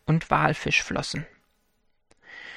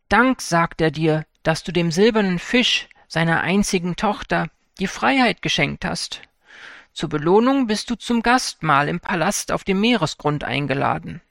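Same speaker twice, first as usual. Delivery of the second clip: turtle voice. Acted. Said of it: "sprach die Schildkröte".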